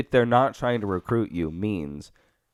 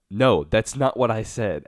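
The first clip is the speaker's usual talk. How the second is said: slow, weary exasperated reading; exasperated protest; 3 dB louder, slower than usual. Retold or imitated. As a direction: read it like he's fed up. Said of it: "I read it in the most exasperated voice ever".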